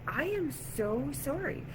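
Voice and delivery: mortified sorry, acted out; profuse apology. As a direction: apologize slowly and emphatically, voice lifting. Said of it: "I'm just, like, apologizing".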